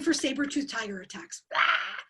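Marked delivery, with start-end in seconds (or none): 1.5-2.0 short mock scream of alarm; a quick "ah" as if attacked; startled cry. Coach mimicking a saber-toothed tiger attack, mock scream.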